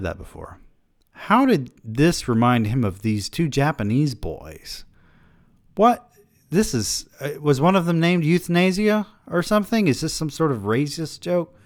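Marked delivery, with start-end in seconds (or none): 5.8-11.6 can't believe what he's reading; confused and suspicious, voice way up; baffled outburst. Real, not acted. Reader baffled by the story.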